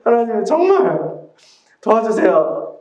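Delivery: loud, high, pleading cry to God; a worshipper crying out loud in prayer, desperate. Retold or imitated. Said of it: "이제 절실하게 했죠".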